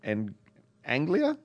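quick reading in a put-on British accent. Reading a listener's letter aloud in a quick British accent. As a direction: rattle off the letter like a Brit. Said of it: "you ran through Tim's with the British accent really fast".

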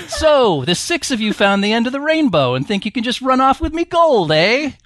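lightly voiced leprechaun with American accent; a hint of a gleeful cartoon leprechaun. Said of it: "read in character as a leprechaun with an American accent".

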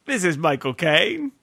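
slow mock-Cockney introduction; badly faked English star; Michael Caine. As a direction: introduce yourself as a London film star, slowly. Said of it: "in a Michael Caine voice".

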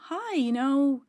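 friendly, slightly halting approach to the guards; lightly acted friendly small talk. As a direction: chat them up, a touch eager. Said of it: "try to be very friendly".

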